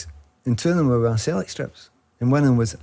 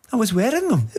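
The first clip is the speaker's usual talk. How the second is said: high, laughing fan voice; laughing punchline; 11 semitones higher than usual. Retold or imitated. Fan explains he had the shoes on, high and laughing. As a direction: crack up as you say it.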